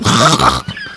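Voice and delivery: low, short pretend snore; mock snore. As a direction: snore as if bored to sleep. Mimes falling asleep at sports talk.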